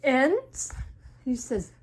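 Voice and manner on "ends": loud, rising near-shout; alarmed question, pitched up; almost shout it in panic; Gerald. Acted. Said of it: "almost like a shout".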